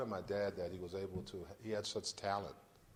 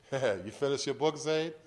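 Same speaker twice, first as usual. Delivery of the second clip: condescending; 3 semitones higher, 5 dB louder than usual. Retold or imitated. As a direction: talk down to the author, mockingly. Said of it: "he kinda condescendingly said to me".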